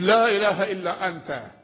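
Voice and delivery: slow, drawn-out chanted recitation; Quranic recitation. Acted. Preacher recites the prophet's prayer to the congregation, slow and chanted. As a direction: stretch each word as in prayer.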